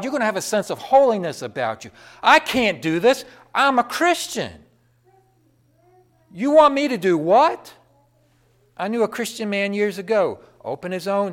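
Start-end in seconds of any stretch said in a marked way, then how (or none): 2.2-4.6 raised, louder mock protest; acted-out principled objection; emphatic refusal. 6.3-7.7 loud, high acted disbelief; indignant, rising disbelief; incredulous.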